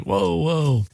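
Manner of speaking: lightly acted 'hold on there'; mock taken aback. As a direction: fend someone off, half-joking. Nick fends her off.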